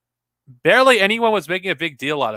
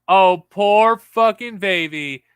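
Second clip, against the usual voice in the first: mock pity; 2 semitones higher, slower than usual. Real, not acted. Mocking actress's emotional plea.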